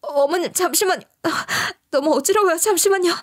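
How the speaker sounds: imitating a dizzy woman; dizzy plea. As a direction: beg for a moment while reeling. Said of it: "이리 얘기할 수밖에 없었는데요".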